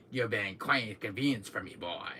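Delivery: low, cool villain line; lightly voiced smug villain; Wesker impression. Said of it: "I'm doing that thing from Wesker".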